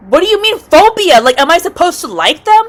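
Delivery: high, incredulous questioning; indignant retort. Acted. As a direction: fire back in disbelief. Indignant retort to phobia remark.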